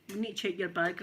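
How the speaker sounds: put-on airport official with a light American accent. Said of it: "I don't know why I'm saying American accent".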